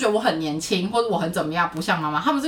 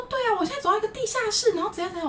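imitating the friend; 14 semitones higher, faster than usual. Friend's voice in retold call.

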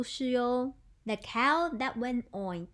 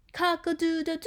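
rooster crowing; 4 semitones higher, faster than usual. Shown as a demonstration. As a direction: crow with a held last note. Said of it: "It's a rooster".

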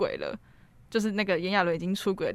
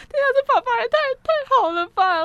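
高声尖着嗓子学自己边哭边喊; 半开玩笑地重现当时爆哭的激动; 模仿自己哭腔; 7 dB louder than usual. Retold or imitated. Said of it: "我真的，那时候就爆哭了". (重演看电影时自己带哭腔的感叹，拔高声调)

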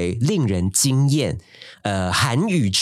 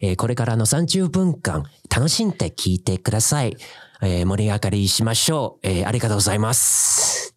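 Japanese show host. Shown as a demonstration. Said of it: "类似像这样的".

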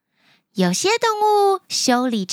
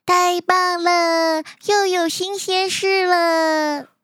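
excited; 3 semitones higher, slower than usual. Acted. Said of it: "都非常非常的开心".

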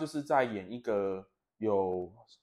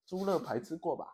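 mock Thai-accented coach; lightly put-on Thai accent, a bit higher; 4 semitones higher than usual. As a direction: tease in a Thai accent about pork ribs. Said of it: "突然出现泰国人的那个口音".

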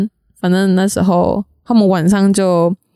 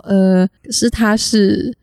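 hesitant tone; slower than usual. Retold or imitated. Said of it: "他的口气就这样".

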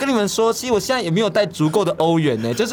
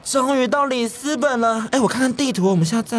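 radio drama tourist; 6 semitones higher than usual. Pretend. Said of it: "营造出一个广播剧的感觉".

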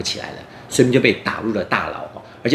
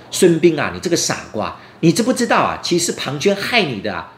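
raised, urgent pleading voice; urgent warning; 6 semitones higher than usual. Acted. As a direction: warn him urgently, voice climbing. Jailer urgently warns Sun Bin. (急切地高声提醒)

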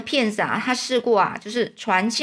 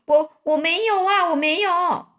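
high, stammering panicked denial; frightened denial; 8 semitones higher, 5 dB louder than usual. A narrator's reading. Choked king denying in fear. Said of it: "国王就说".

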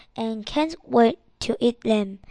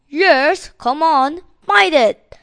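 loud, high-pitched exasperated dare; angry; 5 semitones higher, 10 dB louder than usual. Acted. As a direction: burst out angrily at a cheeky customer. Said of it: "the seller says angrily".

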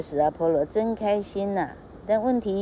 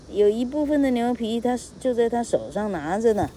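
eager informer; 3 semitones higher than usual. Acted. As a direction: announce the thief proudly to the king. Teacher voices Silenus reporting thief.

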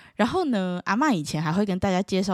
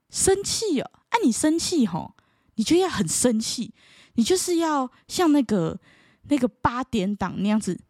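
mock-incredulous high "生气哦？" then lightly voiced advice; a hint of a meddling elder; know-it-all relative; 5 semitones higher than usual. Relative coaching the student to act angry like a soap opera, lightly mocked.

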